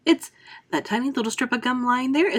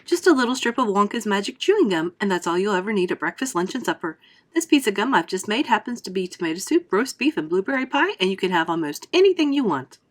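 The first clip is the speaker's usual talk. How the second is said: louder, eager showman pitch; crying out eagerly; 4 dB louder than usual. Acted. Wonka to a doubting father, loud and eager. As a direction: wave away the doubter with big promises. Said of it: "cried Mister Wonka".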